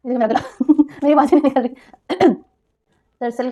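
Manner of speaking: hoarse, voice catching, with a small laugh; real hoarse throat. Real, not acted. Laughing off her hoarse voice to viewers, rough and croaky. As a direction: push words out through a sore throat. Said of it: "मेरा गला ही बैठ गया".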